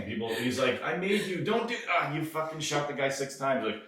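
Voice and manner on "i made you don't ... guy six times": higher, disbelieving scolding; light mock of a fed-up creator; exasperated Jesus.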